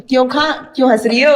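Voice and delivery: lightly put-on Bhopali accent. Shown as a demonstration. Host corrects the guest with a Bhopali accent. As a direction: show how Bhopal says it. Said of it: "उसमें बोलते हैं".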